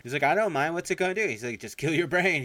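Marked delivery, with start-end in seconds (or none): 0.2-1.3 high, loud carefree brush-off; mock yell. Retelling a film quarrel. 1.6-2.4 higher, louder blunt retort; mock yell. Retelling a film quarrel.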